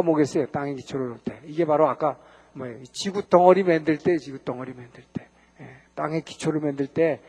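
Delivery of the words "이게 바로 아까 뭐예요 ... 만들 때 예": ordinary talk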